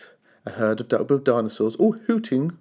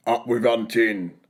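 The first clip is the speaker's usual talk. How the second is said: a lightly growled battle cry; understated fierce chant; mild T-rex shout; 3 semitones lower, slower than usual. A narrator's reading. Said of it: "they shouted".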